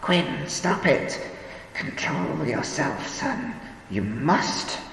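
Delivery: put-on high, slow frightened old woman; alarmed old woman. A narrator's reading. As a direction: plead with him in alarm.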